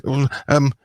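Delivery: put-on the boy nervously asks his guardian to go fishing. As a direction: trip over the words like a shy ward. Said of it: "And he's like".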